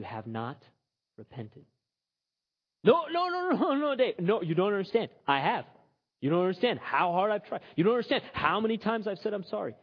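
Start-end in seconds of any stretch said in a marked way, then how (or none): 2.8-9.7 protesting sinner. Acted. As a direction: plead your case, insisting you tried. Imagined protesting congregant.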